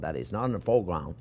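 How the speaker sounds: hushed whisper to yourself; a sly whispered afterthought; whispered aside. Retold or imitated. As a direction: whisper it like a secret thought. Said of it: "You gotta say to yourself".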